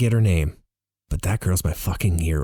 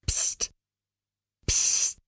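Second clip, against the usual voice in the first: hushed psst; 5 dB quieter than usual. Acted. Someone waking the sleeping narrator.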